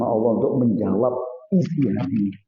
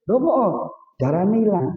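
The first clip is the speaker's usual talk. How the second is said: baffled wife; 6 semitones higher than usual. Retold or imitated. Wife baffled by lost horse.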